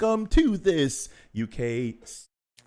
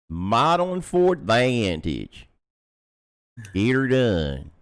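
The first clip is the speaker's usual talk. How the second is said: put-on Southern US accent; 4 semitones lower than usual. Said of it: "in the South, it'd be like".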